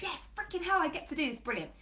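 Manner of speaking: acted hype, starting high; hyped up. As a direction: imitate a buzzing client cheering herself on. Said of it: "you'll be hyped up".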